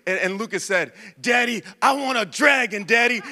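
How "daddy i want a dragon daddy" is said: a light imitation of a three-year-old with a raspy voice, a bit higher and eager; raspy toddler voice. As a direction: playfully voice your little son asking for a dragon. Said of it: "he has a raspy voice".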